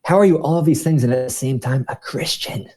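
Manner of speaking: a hint of a curious woman coworker; imitating a coworker.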